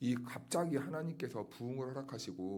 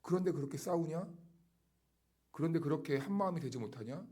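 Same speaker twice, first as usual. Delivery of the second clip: higher-pitched challenging questions; reproachful jab; 5 semitones higher than usual. Retold or imitated. Preacher voicing Paul's hidden rebuke to a quarrelling church, reproachful. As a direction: needle them with rhetorical questions. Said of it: "숨겨진 말이 있는 거죠".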